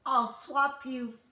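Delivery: slow, loud sly offer; little man tempting Jack, slow and sly; little man's voice. Acted. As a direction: tempt him slowly with the beans.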